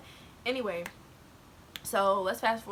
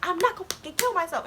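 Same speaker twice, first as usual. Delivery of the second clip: higher-pitched indignant retort; retold yelling; 7 semitones higher than usual. Student snaps back at girl, retold yell. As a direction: re-enact a mild angry yell. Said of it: "And I'm, like, yelling".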